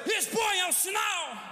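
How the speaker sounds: high, slow call at reduced volume; long, high preacher's cry, held back in force; drawn-out cry. Real, not acted.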